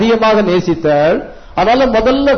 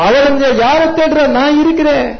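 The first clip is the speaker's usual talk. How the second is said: raised, higher preaching voice as Jesus; voicing Jesus; 5 semitones higher than usual. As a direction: proclaim His presence, pitched up. Preacher voices Jesus answering the seeker.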